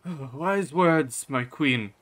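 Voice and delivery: high, drawn-out courtly agreement; Father Ekjar. Acted. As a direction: humour the queen with slow praise. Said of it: "Father Ekjar saying".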